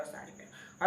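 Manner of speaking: breathy whispered echo of the request; whispered repeat. Retold or imitated. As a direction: whisper it the second time, barely voiced. (ધીમેથી ફફડાટમાં)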